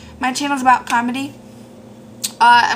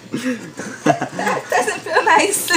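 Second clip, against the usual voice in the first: laughing; much slower than usual. Real, not acted. After stubbing toe, laughing.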